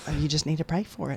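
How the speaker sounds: motherly, mom-like voice. Retelling mom's advice to pray for a guitar player: imitating mom's voice. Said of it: "that's how I talk like my mom".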